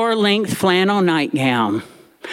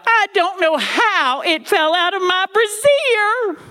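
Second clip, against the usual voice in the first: put-on high, slow whimpering old lady; mock wailing granny; 12 semitones higher, slower than usual. Grandmother excusing herself to her daughter, high slow mock whine. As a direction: plead it in hammed-up distress. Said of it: "Granny cried out".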